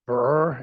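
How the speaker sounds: a quick mock shiver from the cold; shivering brr. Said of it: "it's cold".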